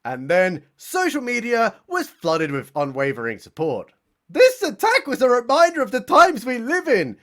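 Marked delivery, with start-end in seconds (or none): 4.3-7.2 high, loud preacher-like statement; Al Sharpton. Acted. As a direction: declaim it like a public statement. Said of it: "reads Al Sharpton".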